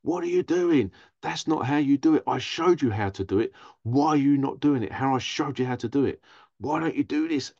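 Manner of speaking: mildly acted nagging parent, pressing each question; imitated scolding parent. Parent berating a child who is trying, imitated scolding. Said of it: "always shout at you".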